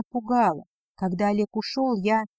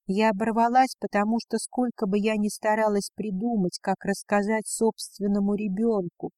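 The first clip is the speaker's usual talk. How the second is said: usual speaking voice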